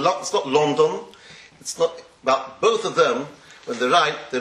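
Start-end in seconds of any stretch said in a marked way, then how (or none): 0.5-1.0 "London" as LON-don; rounded O in "London"; Yiddish pronunciation. Shown as a demonstration. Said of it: "how they say it in Yiddish".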